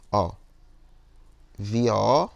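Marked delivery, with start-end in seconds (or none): 1.6-2.3 VIÓ drawn into separate vowels, loud; separated syllables. Shown as a demonstration. Teacher demonstrates separating syllables, VIÓ said loud and divided. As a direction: stretch VIÓ, stressing the final vowel. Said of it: "você tem que separar a sílaba".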